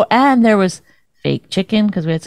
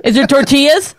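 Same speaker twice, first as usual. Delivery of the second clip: mock food searching; 4 semitones higher than usual. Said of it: "Is that what I do?".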